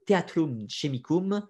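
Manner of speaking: slow, careful "Theatrum Chemicum" said with French sounds; self-mocked Latin accent. Real, not acted. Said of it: "vous m'excuserez pour mon accent atroce".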